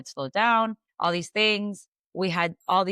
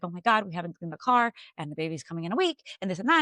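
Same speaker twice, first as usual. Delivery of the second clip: panicked; faster than usual. Retold or imitated. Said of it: "I was in that panic mode of".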